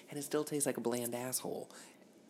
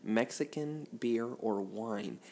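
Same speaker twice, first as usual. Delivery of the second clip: mock dictionary reading; 3 dB louder than usual. Mock dictionary definition read out.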